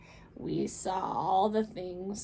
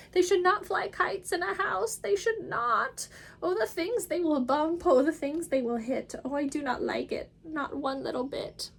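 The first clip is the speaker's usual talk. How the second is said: much higher, louder, anxious little fish; fretful fish; 6 semitones higher, 3 dB louder than usual. Acted. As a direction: squeal out the protest as a fish. Fish frets.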